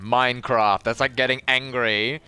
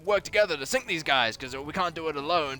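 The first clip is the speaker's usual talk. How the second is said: a hint of a frantic pirate crewmate, higher pitched; rushed call to team up, half-acted; urgent crewmate; 5 semitones higher than usual. Imitating a crew pleading to ally against a boat, mildly urgent. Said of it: "a boat pulls up and they're like".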